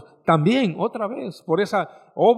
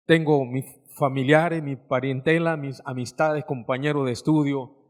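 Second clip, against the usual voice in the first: sad recollection; 3 semitones lower than usual. Real, not acted. Preacher recalls lost friends from port.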